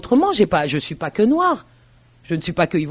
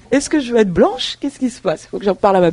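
laughing at her own slip; 3 semitones higher than usual. Real, not acted. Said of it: "Le lapsus".

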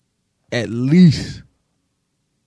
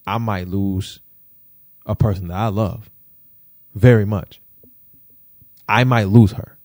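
retold breakdown; 4 semitones lower than usual. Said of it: "just broke down like".

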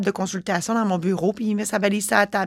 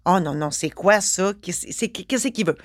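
low, soft panicked muttering to herself; inner panic; 6 semitones lower, 3 dB quieter than usual. Retold or imitated. Notary sees an inspector coming, low panicked muttering. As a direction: mutter it under your breath in dread. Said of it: "je capote".

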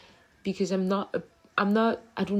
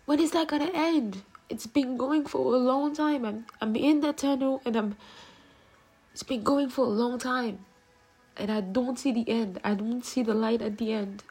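tearful inner plea; 4 semitones higher than usual. Retold or imitated. To viewers, voicing her own despair, tearful and pitched up. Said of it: "I'm like".

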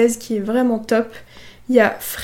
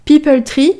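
brand name said with an English accent, higher and louder; English accent on People Tree, pitched up and punched out; 4 semitones higher, 5 dB louder than usual. Shown as a demonstration. Podcast host reading out English brand names, in an English accent. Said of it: "c'est parti pour mon accent anglais".

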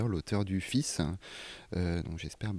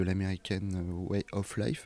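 a light American accent on the English words, no more; self-mocking American accent. Real, not acted. Bookseller mocks his own accent while pitching a novel, light American accent. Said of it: "avec mon superbe accent".

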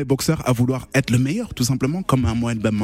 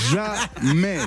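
"Jamais" stretched out, higher; emphatic denial; 4 semitones higher than usual. Real, not acted. Rapper answers whether mum visits the studio, emphatic denial. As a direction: draw "Jamais" out in two slow, emphatic syllables.

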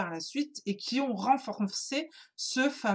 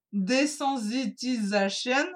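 slow, laboured attempt at an English accent; 2 semitones higher, slower than usual. Shown as a demonstration. French speaker spells out the therapy's name, attempted English accent. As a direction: pick through it slowly in hesitant English pronunciation. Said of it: "attention, l'accent anglais, pardon d'avance".

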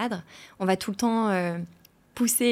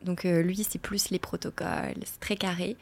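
whispering; 5 dB quieter than usual. Real, not acted. Describing father, drops voice.

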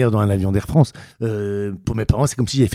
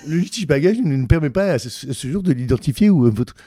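mildly official, procedural delivery; formal airline announcement. Acted. Steward reciting lost-luggage procedure to a passenger, formal. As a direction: imitate the by-the-book steward. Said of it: "Ah, tu le fais trop bien".

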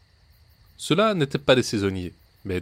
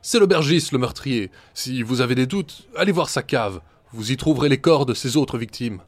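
higher, louder eager telling; eager accusation; 3 semitones higher, 3 dB louder than usual. Acted. Eldest farmhand to the crowd, eager accusation. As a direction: rush to accuse. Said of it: "s'exclama le plus âgé".

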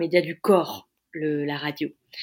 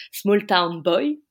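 bad English accent; 2 semitones higher, much slower than usual. Real, not acted. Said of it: "j'ai un accent anglais déplorable".

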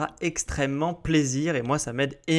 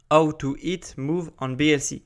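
English book title in a French accent; 4 dB louder than usual. Real, not acted. Podcaster reads the English book title in a French accent. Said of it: "pardonnez-moi pour mon accent qui est peut-être pas à la hauteur".

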